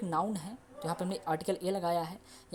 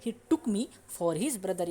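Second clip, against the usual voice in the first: slow second reading of the sentence; slow repeat; much slower than usual. Shown as a demonstration. Teacher repeating the sentence for students. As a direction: repeat it slowly once more. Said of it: "तो".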